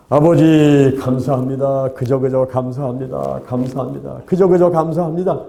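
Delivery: mock-dutiful, repetitive praying; imitated thanksgiving prayer. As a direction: act out a dogged prayer of thanks, droning lightly. Acted-out repeated thanksgiving prayer.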